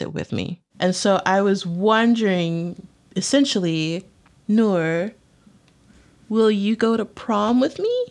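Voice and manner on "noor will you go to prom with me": asking someone out. Real, not acted. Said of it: "Are you really asking me to prom".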